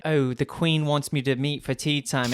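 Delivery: lightly put-on British voice; a touch of mock British; imitated British accent. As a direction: mimic a British tea-time accent. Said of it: "she goes British first".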